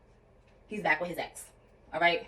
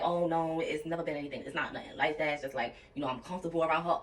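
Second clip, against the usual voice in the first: lightly voiced, softer and lower, brushing it off; a hint of him smoothing things over; downplaying boyfriend; 4 semitones lower, 5 dB quieter than usual. Imitating her ex downplaying it to her, softly dismissive. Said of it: "he's downplaying it to me".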